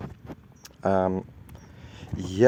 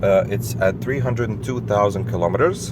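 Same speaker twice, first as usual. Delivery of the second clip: on a bumpy road. Real, not acted. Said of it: "the road is bumpy".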